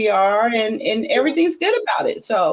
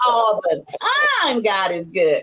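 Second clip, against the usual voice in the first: preaching praise; slower than usual. Real, not acted. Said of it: "Don't tell me God ain't good".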